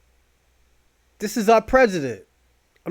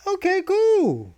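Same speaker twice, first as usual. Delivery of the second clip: mock British accent; 10 semitones higher, slower than usual. Mocking British "perfect English.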